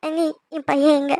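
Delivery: anxious mother pleading through mild tears; tearful. Acted. Distraught mother asking relatives about her injured son, tearful. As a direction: ask with a touch of crying, desperate for reassurance. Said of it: "நீ அழாதீங்க".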